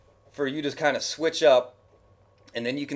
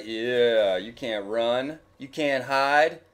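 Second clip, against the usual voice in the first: taunting; much slower than usual. Pretend. Taunting an enemy in game.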